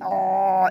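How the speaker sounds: آ pressed from the throat, held; long throaty آ; throat vowel. Shown as a demonstration. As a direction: squeeze آ evenly in the throat. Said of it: "اس طرح سے".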